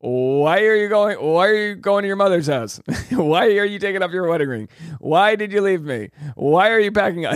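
hammed-up pleading, stretching each why; mock wailing husband. Host plays clueless husband as wife leaves, mock wailing.

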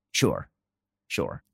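low, soft, dry sarcasm; sarcastic sure. Real, not acted. Host mocking the idea Pelosi stumbled in, low sarcastic murmur. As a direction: dismiss the claim with a quiet eye-roll.

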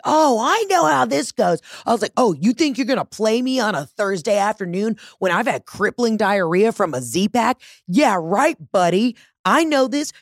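high, sassy, mocking put-down; sassy telling-off. Telling off a scam caller, high sarcastic sass. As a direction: rip into him with sarcasm.

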